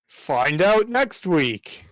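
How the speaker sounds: slow, drawn-out teaser announcer; cartoon intro announcer. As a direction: tease the next episode like a cartoon narrator. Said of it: "Saturday morning cartoon announcer voice".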